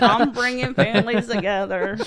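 badly faked TV therapist voice, lightly done; a hint of a hokey talk-show counselor; half-hearted impression, laughing at it; terrible Doctor Phil. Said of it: "That's a terrible impression".

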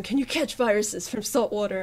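half-laughing at her own silly search. Retold or imitated. Retelling her early pandemic web search, laughing. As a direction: giggle through the question as you recall it. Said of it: "I was looking it up and going".

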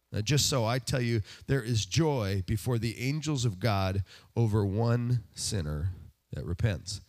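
slow, measured Bible reading; lifted reading voice, sinking at the close; scripture reading. Acted. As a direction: read the passage to the congregation. Reads Luke chapter fifteen.

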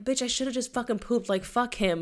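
sassy hindsight. Retold or imitated. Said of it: "I'm like".

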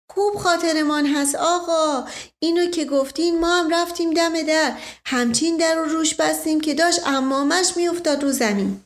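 eager servant bragging; servant Mash Qasem. Acted.

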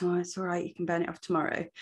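soft and quick, a mock coaxing inner voice; restrictive inner voice, quiet. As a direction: hurry it out softly, like a tempting little voice. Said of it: "We take away the restrictive voice".

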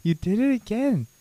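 high, swooping mock scolding; playful teasing. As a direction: tease him with exaggerated high swoops.

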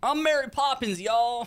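Mary Poppins voice. Acted. Jokey Mary Poppins impression.

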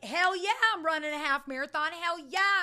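high, pumped-up cheer; excited. Shown as a demonstration. Showing listeners how to sound pumped about goals, high and cheering. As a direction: hype yourself up. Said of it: "you gotta be excited about it".

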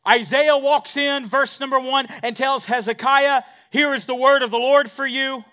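loud, high, ringing pulpit voice; full-force sermon delivery; preaching at full force. Acted. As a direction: proclaim it to the back row. Pastor preaching the Isaiah passage.

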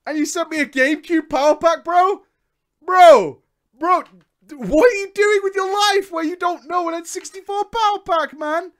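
high, loud, disbelieving bro shout; incredulous shouting. Real, not acted. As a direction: yell it at the seller in disbelief. Yells at the seller's ignorance.

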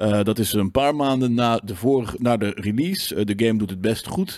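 mock of a boring games presenter; dry news read. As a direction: read it like a dull newsreader. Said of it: "heel droog soort van".

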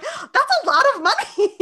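high, giggly, dazzled; high laughing mock awe; awed Alexis. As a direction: say it while pretending to count piles of cash. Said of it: "And then she's like".

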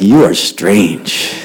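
very slow, low mock verdict; baffled judgment. Student reacts to odd teacher, slow and baffled. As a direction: draw each word out, pitched low.

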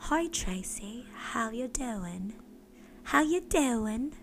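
drawn-out, rising posh English greeting; posh English accent. Acted. Greeting Tracy on a call, posh English accent. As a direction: put on a posh English accent, softly and slowly. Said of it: "So posh".

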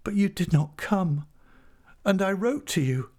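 high, fluty voice full of pathos; wronged heroine, pitched high and plaintive; plaintive woman. A narrator's reading. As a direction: reproach him sorrowfully in a high voice. Tess's reproach in fluty pathos.

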